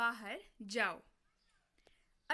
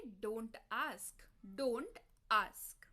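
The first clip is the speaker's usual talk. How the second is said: weary brush-off; 4 semitones lower, much slower than usual. Acted. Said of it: "तो आप क्या बोलते हैं?".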